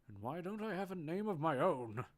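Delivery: fiery yell. Acted. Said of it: "yells with an audible fiery emotion".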